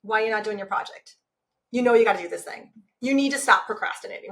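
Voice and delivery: stern, controlled self-scolding; understated critical self-talk; not-nice inner voice. Acted. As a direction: nag yourself about unfinished work. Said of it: "you can hear in the tone that it's not real nice".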